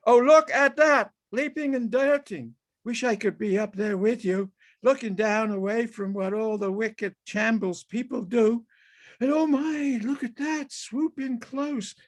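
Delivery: high, excited gasps of joy; delighted wonder. Acted. Man watching a crow swoop, high delighted wonder. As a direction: marvel at the bird in flight.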